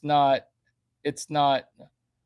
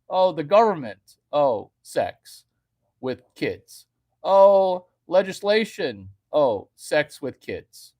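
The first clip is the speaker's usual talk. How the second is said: mock obsessed talker; 7 dB louder than usual. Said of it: "Everything's about sex".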